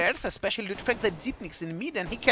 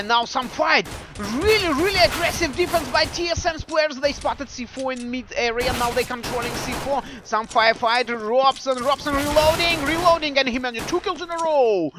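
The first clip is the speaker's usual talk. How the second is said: excited commentary; 5 semitones higher than usual. Real, not acted. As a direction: call the firefight with rising excitement. Caster calling a firefight.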